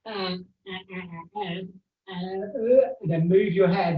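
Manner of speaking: talking with tongue out; tongue sticking out. Real, not acted. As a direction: speak with the tongue stuck out. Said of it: "I can't talk whilst I've got my tongue out".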